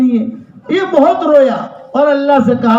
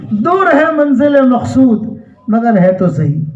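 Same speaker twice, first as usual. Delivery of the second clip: poetic recitation. Acted. Recites Urdu couplet.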